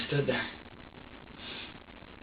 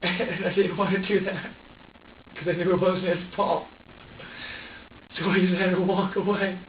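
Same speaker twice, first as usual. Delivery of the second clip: tearful; 3 semitones higher than usual. Real, not acted. Breaking down recounting walking away.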